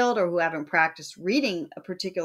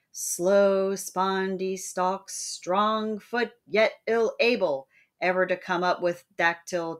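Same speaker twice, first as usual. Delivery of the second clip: poem recital. Shown as a demonstration. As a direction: read it like a metre drill, beat by beat. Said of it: "Coleridge wrote a poem about scansions".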